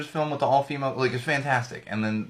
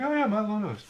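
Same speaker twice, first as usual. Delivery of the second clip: mock excited fan; 10 semitones higher than usual. Mimicking people who saw it.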